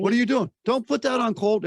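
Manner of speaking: the brain yelps in alarm. Retold or imitated. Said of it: "your brain says".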